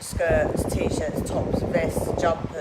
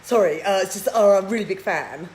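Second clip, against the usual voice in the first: mock starstruck fan; 3 dB louder than usual. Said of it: "He'd go".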